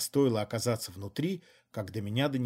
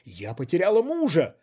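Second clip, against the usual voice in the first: higher, louder indignant cry; indignant shout; 6 semitones higher, 7 dB louder than usual. A narrator's reading. Widow shouting indignantly at her accomplice. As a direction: hurl it at him. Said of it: "возмущённо выкрикнула".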